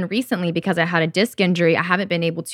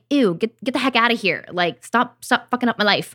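quick, pitched-up acted disgust; mock angry rejection; 4 semitones higher than usual. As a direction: shoo it away in mild mock annoyance. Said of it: "angry with myself the way I used to be".

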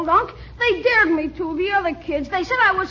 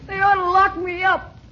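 panicked; 2 semitones higher than usual. Acted. Kid panicking.

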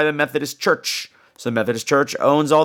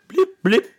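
imitating a beep; 9 semitones higher than usual. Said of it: "there's this blip".

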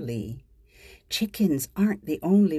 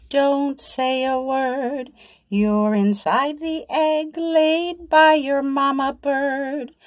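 mama bird's lullaby; 4 semitones higher, 3 dB louder than usual. Acted. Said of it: "mama sitting in her nest".

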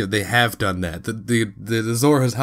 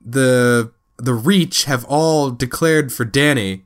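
offhand Tyrion; 3 semitones higher, slower than usual. Retold or imitated. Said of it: "Tyrion's like".

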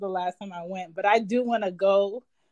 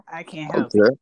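whispered repeat, breathy aside; 3 semitones lower, 7 dB louder than usual. Pretend. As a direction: drop to a whisper for the joke.

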